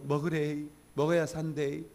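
put-on a mild Gyeongsang accent, coaxing to eat; Gyeongsang dialect. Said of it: "경상도 말로".

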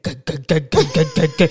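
repeated choked "g-g-g" syllables; staccato stuck-syllable stammer; imitated brother's stutter. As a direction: mimic a speechless brother's stammer. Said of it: "he's like".

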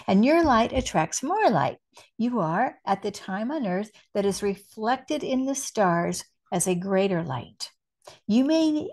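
measured, deliberate spiritual message reading; spoken like a message from Spirit; channeled message reading. Acted. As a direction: read it out with weight, pausing between phrases.

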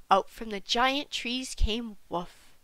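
ordinary delivery, nothing marked

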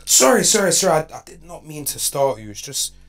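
woo her like a perfect robot lover; smooth AI boyfriend. Acted. AI boyfriend charm skit.

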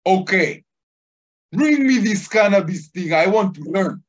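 high, loud, eager demand; suddenly keen, ordering it up; cop gives in. Retold or imitated. Cop staring at the teller, eagerly demanding the cannabis. Cop turns to him converted.

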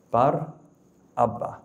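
Bar, a pause, then Abba; slowly split. Shown as a demonstration. Preacher drilling the name for the crowd, slowly split. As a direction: separate Bar from Abba clearly. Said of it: "the word slowly".

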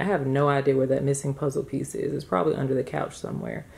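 breathless and winded; speaking while catching breath. Real, not acted. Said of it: "Oh, I'm out of breath".

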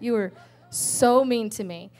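half-joking pout at God; sulky complaint to God. Retold or imitated. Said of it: "I actually said that".

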